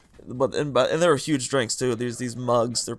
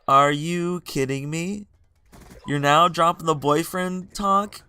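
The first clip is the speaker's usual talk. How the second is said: slow incredulous; 3 semitones higher, slower than usual. Retold or imitated. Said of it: "I'm like".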